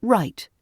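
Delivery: Right cut short and crisp; clipped right. Shown as a demonstration. Teacher demonstrating a clipped RP Right. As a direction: clip the word Right. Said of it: "right is clipped".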